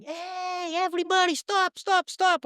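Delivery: high, loud shout to halt the game; yelling. Retold or imitated. Cousin interrupting the boys' soccer game, high loud shouting. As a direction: call out to stop everybody, high and loud. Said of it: "start yelling".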